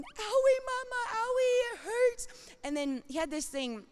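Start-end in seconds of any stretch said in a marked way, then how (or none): 0.0-2.3 put-on high, whimpering little child voice; hurt toddler. Toddler hurt under house.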